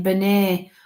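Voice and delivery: Bernie as "buh-NAY"; French-sounding name. Retold or imitated. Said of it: "Sounds French to me".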